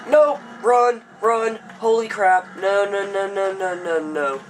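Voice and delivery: screaming high and loud in terror; terrified scream. Real, not acted. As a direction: scream as it catches you, fading into pleading noes. Monster attacks, he screams.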